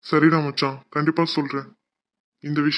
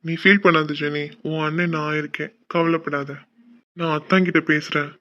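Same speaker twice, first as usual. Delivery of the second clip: softer, gentle big-brother comfort; reassuring; 4 dB quieter than usual. Acted. Brother calming his tearful sister, soft reassurance. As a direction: quietly soothe her, promise to handle it.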